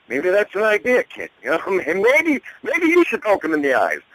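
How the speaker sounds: high, playful scheming wrestler voice; imitated wrestler warming to mischief; Roddy Piper. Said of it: "And Roddy's sitting there".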